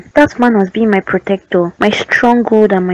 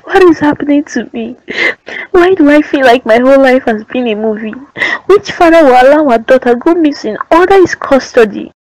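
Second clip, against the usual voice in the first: tearful lament; 3 semitones higher than usual. Acted. Mother despairing over missing child.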